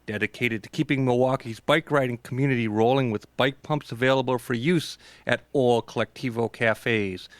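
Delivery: measured station ID and sponsor read; radio announcer read. Real, not acted. Host reading a sponsor credit to radio listeners, announcer style.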